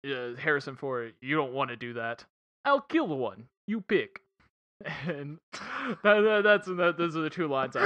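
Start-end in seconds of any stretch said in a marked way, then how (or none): 1.2-4.2 put-on Russian accent. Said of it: "I'm gonna try my real Russian accent".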